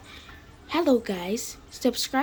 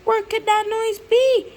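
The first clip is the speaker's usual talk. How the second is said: high, louder questioning cry; exasperated wondering; 12 semitones higher, 5 dB louder than usual. Acted. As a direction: call out, fed up searching. Exasperated search for the noise.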